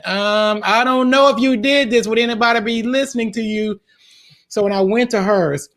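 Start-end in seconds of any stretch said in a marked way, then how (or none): 0.1-3.8 a hint of a nagging inner demon, pitched higher; little demon voice. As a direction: voice the doubting demon lightly, a little high. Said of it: "that little demon going".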